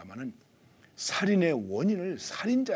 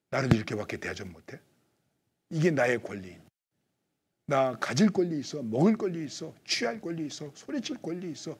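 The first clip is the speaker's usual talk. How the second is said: louder, aggrieved insisting on my rights; mock angry rant about rights; indignant demands; 5 dB louder than usual. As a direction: act out someone demanding what is theirs. Acting a person claiming rights.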